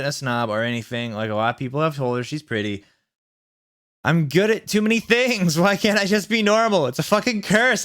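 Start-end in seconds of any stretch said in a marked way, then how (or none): 4.0-7.8 put-on high, dramatic teen wail; hammed-up tragic outburst; mock shout. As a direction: wail it like a misunderstood goth. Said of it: "I shouted".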